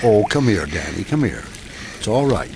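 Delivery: put-on calm the boy down kindly; reassuring neighbour hushing a scared kid; gentle comforting.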